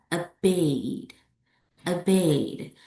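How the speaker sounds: OBEYED slowly, stressed on BEYED; second-syllable stress. Shown as a demonstration. Teacher repeats for learners, stress on BEYED. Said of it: "Examples of words with stress on the second syllables".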